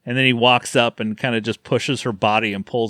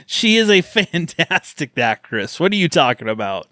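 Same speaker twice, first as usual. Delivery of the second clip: sarcastic; 3 semitones higher than usual. Real, not acted. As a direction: feign indignant admiration, tongue in cheek. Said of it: "I said that sarcastically".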